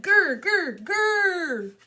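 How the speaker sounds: loud, high repeated growls; scary clown growl. Acted. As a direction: growl harder to frighten them. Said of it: "I made a scary clown face".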